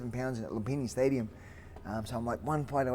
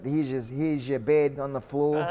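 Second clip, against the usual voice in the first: blunt camp staff; 3 semitones higher, 7 dB louder than usual. Retold or imitated. Thai camp staff showing the new fighter his bed, loud. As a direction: announce it bluntly.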